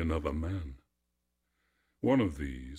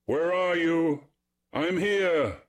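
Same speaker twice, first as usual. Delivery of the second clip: high, loud halloo to missing friends; 11 semitones higher, 6 dB louder than usual. A narrator's reading. Narcissus strayed from his companions, hallooing them. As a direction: call out across the forest, pitched right up. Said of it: "He hallooed them".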